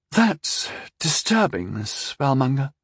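scornful, slow and disdainful; contemptuous. Acted. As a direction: sneer the name Spellmonger like a slur. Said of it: "turning the nickname into a slur".

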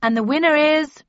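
loud, high award reveal; announcer reveal. Acted. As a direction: build suspense for the winner. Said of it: "announced the M C".

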